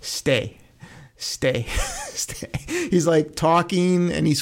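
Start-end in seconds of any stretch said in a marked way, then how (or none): 0.0-2.5 mock-begging the player to stay on the board; imitating Campbell's pleading. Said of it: "you just hear him go".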